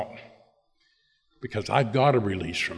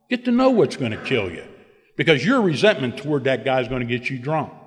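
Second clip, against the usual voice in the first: higher, louder, fast insistent lecture; sponsor lecturing; 3 semitones higher, 5 dB louder than usual. Retold or imitated. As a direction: hammer the lesson home, fast. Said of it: "He said".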